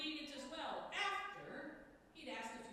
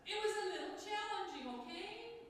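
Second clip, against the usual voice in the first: laughing through the line, louder and higher; 7 semitones higher, 4 dB louder than usual. Real, not acted. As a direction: chuckle at your own joke.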